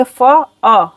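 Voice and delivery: फ़अ as two short beats, fa-a; brief, unstretched फ़अ; quick short syllables. Shown as a demonstration. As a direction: keep both vowels of फ़अ short. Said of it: "फ़अ को जल्दी से पढ़ेंगे".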